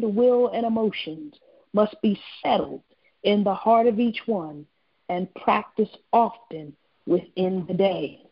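measured prophetic reading with pauses between phrases; slow, deliberate reading. Real, not acted. Minister reads a word from the Lord to callers, slow and deliberate. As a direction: read it out slowly and solemnly, letting each phrase land. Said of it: "I want to read it slow".

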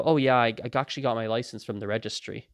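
casual, sincere answer; serious, unruffled. Acted. Replying to someone yelling at you, unruffled. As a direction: take it as a genuine question. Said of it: "as if it's a serious question".

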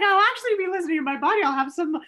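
a quick, high, teasing take on the daughter; playful daughter voice. Retold or imitated.

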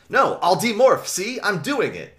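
high, loud panicky pleading; frantic compliance. A narrator's reading. David begs as Visser threatens him.

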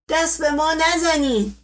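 pained cry. A narrator's reading. Wounded servant stops the doctor touching him, crying out. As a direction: cry out against being moved. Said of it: "فریاد مشقاسم بلند شد".

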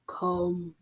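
low, soft, drawn-out creepy summons; creepy whispering voice. Acted. Creepy voice beckoning in the clearing, hushed. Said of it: "whispered a creepy voice".

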